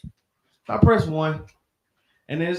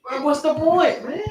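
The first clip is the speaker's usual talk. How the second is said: exasperated laughing; 7 semitones higher, slower than usual. Real, not acted. Exasperated at the phone agent.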